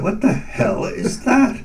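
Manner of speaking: high, shocked question; startled. Retold or imitated. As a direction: ask it in sudden alarm. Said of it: "I said".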